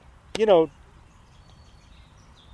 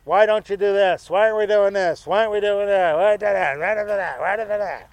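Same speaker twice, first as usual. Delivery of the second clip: nagging run-on complaints dissolving into babble; lightly mocked yelling husband; faster than usual. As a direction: imitate a husband griping on and on without a break. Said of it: "they're yelling and they're".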